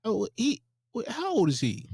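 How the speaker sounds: high Southern preacher imitation; preacher voice impression. Friend mocking the guest in a preacher voice. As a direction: ham up a pulpit cadence. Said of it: "why are you talking like a Southern Baptist preacher".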